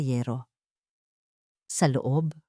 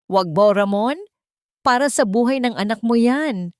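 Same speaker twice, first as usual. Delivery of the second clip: louder, pleading cry to stop him; desperate shout; 6 semitones higher, 5 dB louder than usual. Acted. Wife cries out to husband taking her savings, desperate shout. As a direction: scream at him with her last strength. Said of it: "Ang huling lakas na sigaw ni Felicia".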